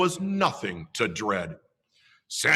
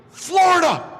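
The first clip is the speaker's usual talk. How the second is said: excited high shout; a kid yelling Florida in alarm; 7 dB louder than usual. Acted. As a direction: burst out with the name. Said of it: "shouted Ernie".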